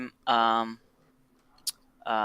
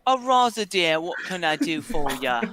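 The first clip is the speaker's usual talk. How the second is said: barkeeper character; 5 semitones higher than usual. Acted. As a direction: greet a regular as the barkeep. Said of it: "Araza, what can I get you, dear".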